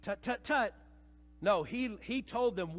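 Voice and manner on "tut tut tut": tame mild Jesus. Retold or imitated. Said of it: "really tame, domesticated view of Jesus".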